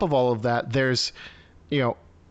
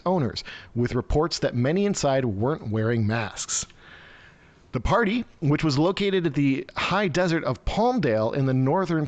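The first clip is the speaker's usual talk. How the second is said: article read aloud with lively emphasis; news read. Real, not acted. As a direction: read out the report, stumbling now and then.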